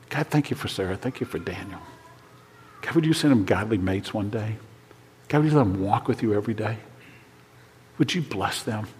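soft, hushed prayer with pauses; bedside prayer. Retold or imitated. Father praying over his kids at night, soft bedside prayer. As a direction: pray softly, as over a child at night.

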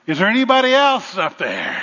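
punchline yell, laughing through it; screaming out, laughing. Retold or imitated. Dangling man yells for someone else, laughing mock scream. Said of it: "he screams out".

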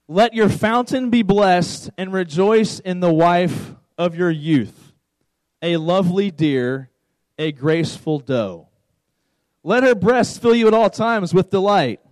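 deliberate, measured scripture reading; slow, emphatic verse reading to make listeners squirm. Shown as a demonstration. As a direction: read it out slowly, savoring each phrase. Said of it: "read it very, very slowly".

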